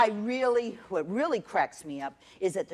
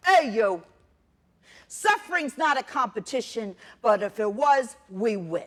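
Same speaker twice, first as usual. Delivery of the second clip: loud, brash challenge at the rabbi; aunt taunting the rabbi, loud and cocky; mock yell; 2 semitones higher, 6 dB louder than usual. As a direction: shout it at him like a dare.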